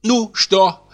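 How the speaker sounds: put-on high, quick old-maid voice; quick woman's voice. A narrator's reading. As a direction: rattle off her questions fast and high. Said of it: "быстро заговорил женский голос".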